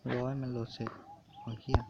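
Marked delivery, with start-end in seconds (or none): 1.4-1.8 sudden yelp, pitch shooting way up; real startled cry; startled exclamation. Real, not acted. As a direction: blurt it out in real shock. Sudden shock at the screen.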